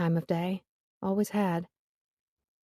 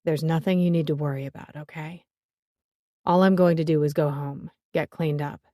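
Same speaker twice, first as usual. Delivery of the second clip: sweet and coaxing; 2 semitones lower than usual. A narrator's reading. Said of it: "His tone softened to something more sweet and coaxing".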